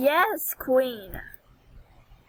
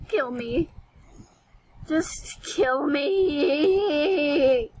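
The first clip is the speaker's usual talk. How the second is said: very slow, half-crying mock wail; mock despair; much slower than usual. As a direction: drag it out like a hammed-up lament. Mock despair over the skirt.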